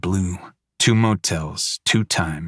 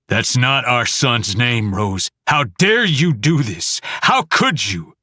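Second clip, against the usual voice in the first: furious father; 4 semitones higher than usual. Acted. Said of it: "father accusing wife".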